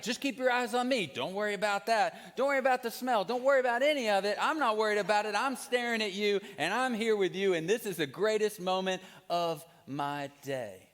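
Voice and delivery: reassuring dad. Retold or imitated. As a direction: soothe the baby through a messy moment. Dad comforting baby, retold.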